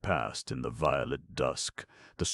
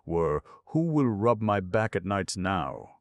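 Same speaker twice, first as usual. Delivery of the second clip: put-on higher, louder, a pleading old cousin; pathetic plea; 5 semitones higher, 5 dB louder than usual. A narrator's reading. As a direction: whine it out pitifully. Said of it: "said Cousin Stickles pathetically".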